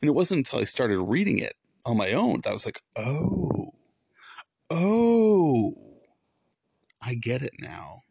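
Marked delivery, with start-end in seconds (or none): 3.0-8.0 he finally understands the Bible, in rising wonder; dawning realization. Retold or imitated. Retelling his own realization.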